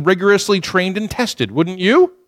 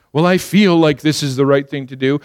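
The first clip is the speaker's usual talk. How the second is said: mocking a feelings-led believer; 4 semitones lower than usual. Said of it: "like trust their emotions".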